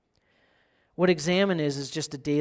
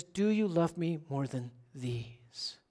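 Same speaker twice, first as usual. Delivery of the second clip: quiet, slow plea; Jesus gently asking Peter, soft and slow; soft, slow question; 7 dB quieter, slower than usual. Retold or imitated. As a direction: ask it slowly and softly, searching. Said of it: "because he says".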